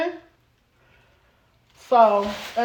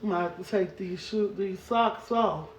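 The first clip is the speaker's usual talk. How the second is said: gentle concern; 6 semitones lower, 9 dB quieter than usual. Real, not acted. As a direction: comfort a little one quietly. Checking on a bruised child.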